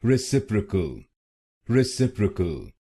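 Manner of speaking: रेसिप्रोकल with a short 'pri' third syllable, re-sip-ri-kal; correct pronunciation. Shown as a demonstration. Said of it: "इसकी सही pronunciation है". (सही उच्चारण: रेसिप्रोकल, 'प्री' छोटा)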